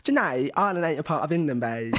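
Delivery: attempted Geordie accent, lively and lilting. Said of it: "Oh, is it Geordie?".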